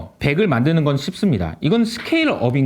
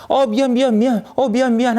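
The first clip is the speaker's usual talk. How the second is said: higher-pitched, hurried-sounding string of sorries; mock apologizing; 6 semitones higher than usual. US pushed back by China, mock apologetic. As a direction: play at backing off with quick apologies.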